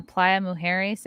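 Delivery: Playa Mujeres said slowly with Spanish vowels; Spanish accent. Real, not acted. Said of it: "Here's where my Spanish accent comes out".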